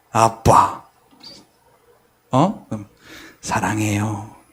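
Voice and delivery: soft, flat robotic monotone without intonation. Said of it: "억양은 없어요. 에이아이가 말하는 것 같아".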